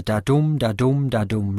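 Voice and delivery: "da-dum" in even beats, stress on "dum"; iambic rhythm. Shown as a demonstration. Lecturer illustrating the ideal pattern, "da-dum" stressed on "dum". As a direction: tap out "da-dum" with the voice, weight on the second syllable. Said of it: "matched by a word stress on every second syllable".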